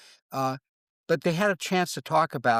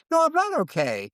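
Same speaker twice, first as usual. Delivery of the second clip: much higher, louder "No"; higher, louder honest answer to "are you okay"; emphatic no; 13 semitones higher, 4 dB louder than usual. Retold or imitated. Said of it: "Are you okay?".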